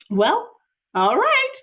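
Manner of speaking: high, slow, resigned; reluctant agreement. Acted. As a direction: give in with a drawn-out sigh of a voice. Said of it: "said Amelia Bedelia".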